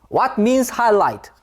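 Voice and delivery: slow demo of the wrong "What means highlight?"; wrong question form. Shown as a demonstration. Teacher showing students the wrong form, slow and deliberate. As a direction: present "What means highlight?" slowly as the mistake. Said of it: "이렇게 쓰면 안 돼요".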